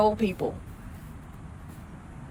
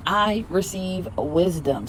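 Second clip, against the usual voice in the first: slower, settled affirmation; slower than usual. Shown as a demonstration. Repeating affirmation for viewers, slowly. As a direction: let wisdom land slowly. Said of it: "Repeat after me".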